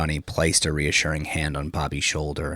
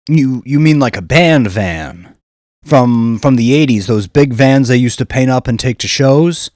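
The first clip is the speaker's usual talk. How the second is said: Bobby remembering; 7 semitones higher, 12 dB louder than usual. A narrator's reading. Bouncer guessing at the van, high and loud.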